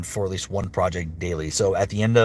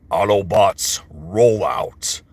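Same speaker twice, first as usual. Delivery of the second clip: commanding robot-leader voice; rallying call in a put-on heroic voice; a commander giving the order; Optimus Prime; 3 dB louder, much slower than usual. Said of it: "Can I do Optimus Prime".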